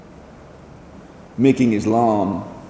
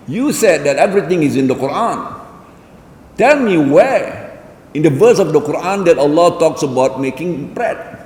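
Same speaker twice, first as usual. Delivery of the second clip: loud, higher-pitched retold challenge; cynical challenge; 5 semitones higher, 4 dB louder than usual. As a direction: imitate a sceptic demanding proof. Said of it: "in a very cynical way".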